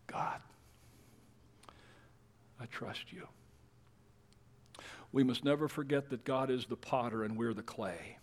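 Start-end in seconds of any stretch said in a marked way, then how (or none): 0.1-3.3 soft whispered surrender; whispered trust; whispered prayer. Pretend. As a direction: breathe the prayer out. Voicing a humble prayer.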